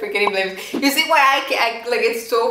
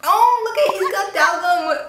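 excited squeal; 9 semitones higher, 4 dB louder, slower than usual. Real, not acted. Excited seeing idol's pet.

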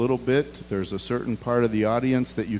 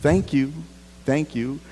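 sincere flight attendant; 4 semitones higher than usual. Retold or imitated. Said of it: "they do their very best to sound sincere".

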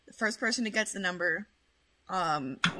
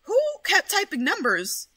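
angry shout; 9 semitones higher, 4 dB louder than usual. Real, not acted. Scolding chat.

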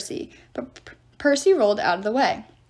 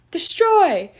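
single loud high chant; roaring battle cry; troops' war cry; 7 semitones higher, 6 dB louder than usual. A narrator's reading. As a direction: echo it like a whole army. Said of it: "her troops' cry echoed".

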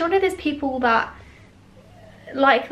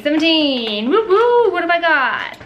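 excited; 4 semitones higher, 4 dB louder than usual. Real, not acted. Opening advent calendar door.

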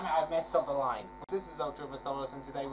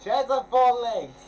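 loud, slow laughing remark; laughing scolding; 7 semitones higher, 13 dB louder, slower than usual. Real, not acted.

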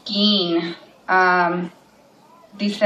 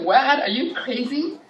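high, sharp disbelief; incredulous retort; 6 semitones higher than usual. Retold or imitated. Mother to her daughter, high incredulous retort. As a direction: throw it back at her in disbelief.

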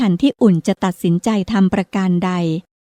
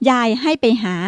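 calling; 3 semitones higher than usual. Acted. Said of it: "ประภายืนตะโกนบอก".

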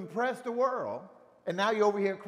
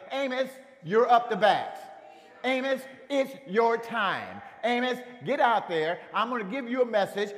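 a hint of God's commanding voice, louder; God calling Amos; 2 semitones higher, 4 dB louder than usual. God sends Amos with a message, lightly voiced command. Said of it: "God said".

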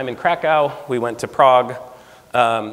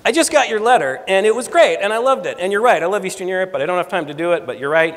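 imitating Rick Steves; 5 semitones higher than usual. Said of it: "The voice said".

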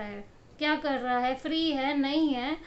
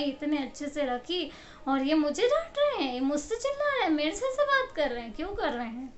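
complaining mother. Retold or imitated. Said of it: "बड़ा मतलब complaining".

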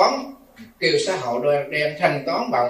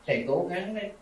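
a softer, mildly imitated plea; pleading; 4 dB quieter, faster than usual. Daughter begging the monk to help her mother, softly pleading. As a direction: lightly coax the monk into saying yes. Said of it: "Mà cổ mới năn nỉ".

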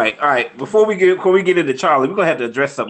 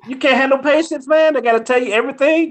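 high-pitched teasing complaint; mock exasperation; 11 semitones higher than usual. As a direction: playfully scold a friend for impatience. Teasing friend for impatience.

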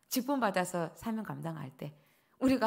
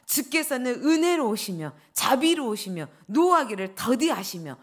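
mock angry complaint; 2 semitones higher, 6 dB louder than usual. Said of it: "막 이렇게 말을 해요".

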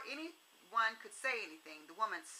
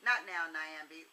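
through clenched teeth; 3 semitones lower, 4 dB louder than usual. Acted. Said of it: "through clenched teeth".

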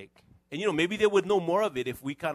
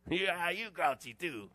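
teasing wife; 4 semitones higher, 3 dB quieter, slower than usual. Retold or imitated.

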